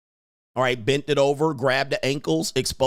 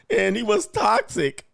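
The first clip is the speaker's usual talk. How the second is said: mock complaining woman; 6 semitones higher, slower than usual. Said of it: "that's what it sounds like".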